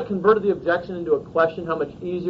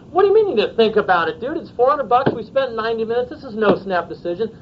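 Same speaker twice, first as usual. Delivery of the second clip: higher, mildly exasperated pushback; blunt, unsoftened; 4 semitones higher than usual. Acted. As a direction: challenge a friend without softening it. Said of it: "I can't say it like that".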